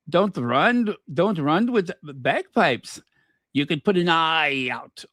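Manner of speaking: put-on hammy, clumsy Scottish accent; badly faked Scottish burr. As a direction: read the joke in a terrible Scottish accent. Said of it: "Scottish accent".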